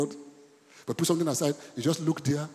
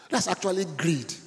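"That's actually greed" said slower, each word weighed; slow, emphatic repeat; 4 semitones higher than usual. Shown as a demonstration. Pastor repeats the warning to the congregation, slow and weighty. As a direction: drive home "That's actually greed" slowly. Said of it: "You know what I just said?".

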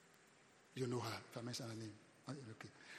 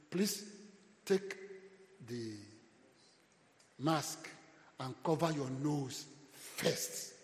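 slow announcement voice; 3 dB louder, much slower than usual. Retold or imitated. Flight attendant safety instructions.

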